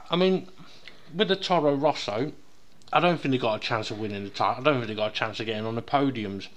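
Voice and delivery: talking while chewing; words round a bite of chocolate; mouth full. Real, not acted. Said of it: "what are you eating, Dev?".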